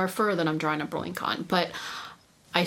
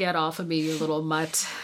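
ordinary delivery

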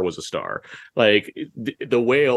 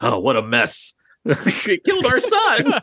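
gruff put-on voice, very high, slow, swooping; 11 semitones higher than usual. Quoting a Simpsons spoof parent after the whale crushes the kid: gruff Michael Madsen voice-alike. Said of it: "a Michael Madsen voice alike".

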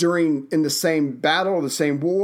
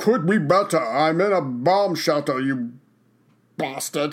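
put-on British statesman voice. Role-playing a phone call from a bomb shelter: Winston Churchill voice. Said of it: "you're gonna do a voice".

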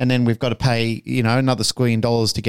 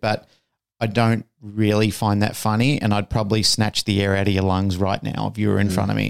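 normal talking voice

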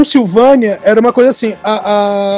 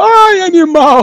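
play-acted, sudden, high screamed cry out; 8 semitones higher than usual. Retelling a film scene heard from outside the castle, imitating Igor screaming. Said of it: "o Igor gritando".

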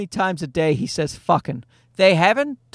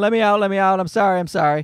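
imitated child bawling, mocking, slower. Parent retelling their son crying in his room during a timeout, imitating a child bawling. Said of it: "he started bawling and crying".

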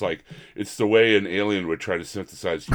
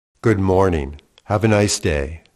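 put-on movie voiceover voice, louder; 6 dB louder than usual. Retelling a movie scene's voiceover greeting: Neil Breen impression. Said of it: "but he's like".

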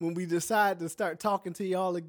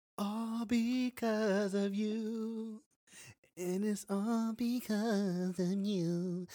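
very slow, drawn-out line with "you" stretched long; 3 semitones higher, 6 dB quieter than usual. Joking about editing the episode, doing a Neo impression. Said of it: "That was my Neo impression".

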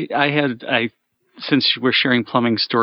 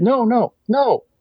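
panicked, frantic delivery. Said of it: "and she says".

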